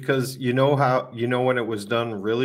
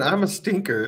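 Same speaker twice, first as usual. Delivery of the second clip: mock Brooklyn accent, pitched up; a quick silly Brooklyn accent; 7 semitones higher than usual. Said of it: "in a weird Brooklyn accent".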